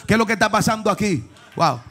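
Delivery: quick, loud revival preaching; rousing preaching. Real, not acted. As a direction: fire up the congregation. Preaching at full force.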